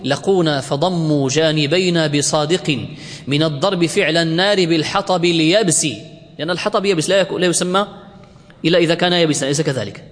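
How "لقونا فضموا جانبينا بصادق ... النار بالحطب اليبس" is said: poem recitation. Acted. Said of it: "الزبيدي يقول".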